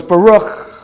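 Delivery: "Baruch" ending on a long throaty ch; closing ch. Shown as a demonstration. Teacher modelling the word for students, "Baruch" with drawn-out final ch. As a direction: close the last syllable of "Baruch" on a scraped ch. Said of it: "because the shua closes the syllable".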